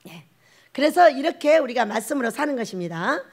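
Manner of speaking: usual speaking voice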